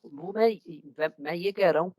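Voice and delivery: choppy audio cutting out; call dropping out. Real, not acted. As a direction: voice fading on a bad connection. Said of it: "sir, दोबारा cut रही है".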